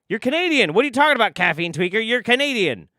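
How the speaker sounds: high-pitched, loud exasperated protest; heated comic outburst; mock indignant. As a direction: argue back in disbelief, voice jumping up. Mock-arguing with chat about the accent.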